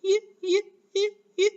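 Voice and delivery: high, short, separate "yuh" for each "Y"; letter sound, not name. Shown as a demonstration. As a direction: chirp the y sound as in yes for "Y, y". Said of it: "What does Y say?".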